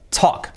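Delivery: "talk" with a vowel halfway from O to A, silent L; vowel between O and A. Shown as a demonstration. Teacher explaining the vowel, "talk" as "tok" between O and A. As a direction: blend O and A in "talk", no L. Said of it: "una mezcla entre O y A".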